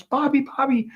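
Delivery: retold alarmed calling. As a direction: imitate calling out to a hurt friend. Retold calling to injured friend.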